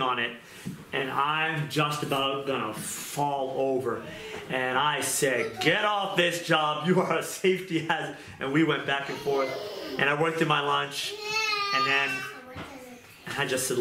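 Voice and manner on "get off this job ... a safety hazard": retold outburst. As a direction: order him off, stretching each word. Retold angry outburst at co-worker.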